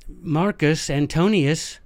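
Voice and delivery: scolding parent. Acted. Roman parent scolding a child.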